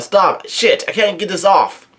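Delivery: half-hearted shout at no extra volume; Luffy's retold yell. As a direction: yell it in imitation, without real force. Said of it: "Luffy yells out".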